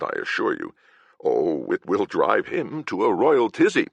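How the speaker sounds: mincing, scandalised lord, lightly done; Lord Huckleberry voice. Acted. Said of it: "In my Lord Huckleberry voice".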